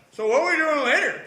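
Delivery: high, loud mock-cheerful question; hammed-up chipper voice; blissfully oblivious. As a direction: play a brainwashed happy teen, carefree. Calmed hero's cheerful return, retold.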